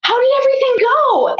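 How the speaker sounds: imitated high, eager inquiry; eager question. Midwife asking patient about the birth, eagerly. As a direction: ask brightly, pitch way up.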